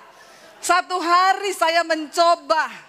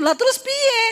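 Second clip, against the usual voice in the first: exasperated protest; 11 semitones higher than usual. Retold or imitated. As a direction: protest sharply to the husband. Protest in quarrel.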